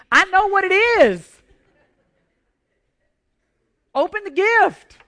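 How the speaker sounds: can barely hold the secret in; eager insistence. Retold or imitated. Pastor's inner voice urging the girl, loud and eager.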